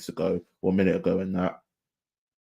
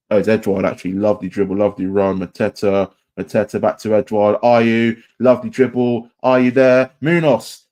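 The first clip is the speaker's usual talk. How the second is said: louder and louder, rising as the move builds; building excited commentary; 2 semitones higher, 8 dB louder than usual. Real, not acted. Fan live-calling his team's attacking move, building excitement. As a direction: call the move faster and bigger with each pass.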